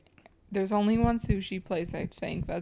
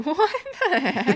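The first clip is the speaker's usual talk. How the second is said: amused, louder show of amazement; mock astonishment; 8 semitones higher, 5 dB louder than usual. Shown as a demonstration. Demonstrating the fun-fact reaction to cohost, mock astonished. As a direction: correct them with a bigger, higher exclamation. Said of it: "it's more like this".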